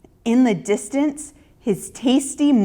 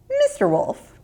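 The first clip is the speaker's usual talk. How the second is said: put-on much higher, clever little girl voice. A narrator's reading. Ruthie addressing the wolf, much higher girl voice. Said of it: "she explained".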